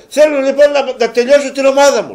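loud, high mock plea of despair; exasperated cry. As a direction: throw up your hands at the bill. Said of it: "λέει".

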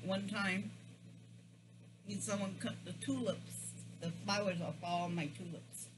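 talking while chewing; muffled by food; mouth full. Real, not acted. Seen 1: Holds fried ball at mouth, cheeks full, chewing throughout the speech.

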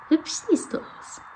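soft unvoiced whisper to a pet. Real, not acted. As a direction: breathe the compliment softly. (sanft geflüstert)

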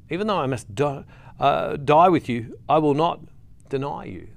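halting vow, broken by pauses; deliberate repeat. Acted. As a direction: repeat the promise piece by piece, letting it sink in.

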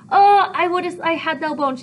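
high, loud, impatient outburst; exasperated Juliet. Acted. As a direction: snap back like a frustrated girl. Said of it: "And Juliet's like".

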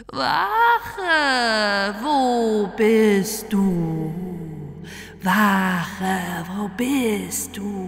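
slow, drawn-out ghostly wail; ghost crying out. A narrator's reading. The ghost calls for the guard, slow and wailing. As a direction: wail it long and hollow through the church. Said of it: "und schrie".

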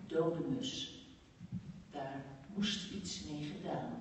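measured poem reading with deliberate pauses; poem recital. Acted. Speaker reads a poet's poem Dier to the audience, measured recital. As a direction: recite it line by line, leaving space between phrases.

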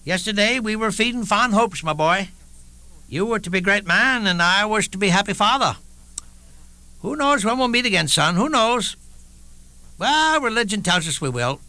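high, lightly voiced aging father; a father's tender farewell to his son; old father. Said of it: "Father and I took a walk".

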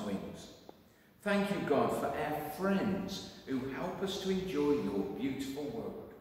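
gentle spoken prayer. Acted. Leading children in an Easter prayer, gentle.

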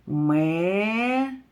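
"Ме-те-лик" slow, syllable by syllable; split into syllables. Shown as a demonstration. Teacher counting syllables with children, "Ме-те-лик" in slow beats. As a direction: tap out "Ме-те-лик" in three beats. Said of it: "Поділимо слово на склади".

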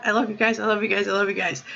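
fading sincere thanks. Real, not acted. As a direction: let it fade into a hush. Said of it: "repeated, fading thanks".

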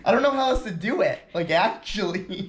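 breathless and lightheaded; hyperventilating. Real, not acted. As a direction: talk between heavy breaths. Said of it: "'Cause you're hyperventilating".

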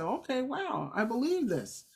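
quietly awed believer; hushed new believer's conviction; softly convinced. Retold or imitated.

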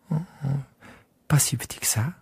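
soft whisper, peering closely; child murmuring over the drawing; hushed little prince. Acted. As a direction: whisper as if not to wake the sheep.

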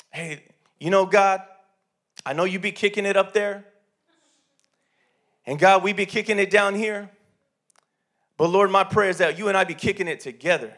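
lightly voiced casual street-style prayer; a touch of street talk in a retold prayer; imitating street prayer. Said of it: "That's how he talked".

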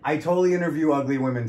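laughing through a playful protest. Real, not acted. To the host, joking defensively while laughing.

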